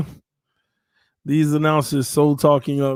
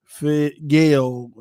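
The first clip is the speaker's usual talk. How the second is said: slow quoted worry; much slower than usual. Retold or imitated. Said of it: "you keep saying".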